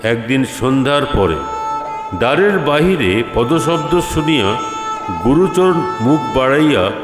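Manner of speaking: usual speaking voice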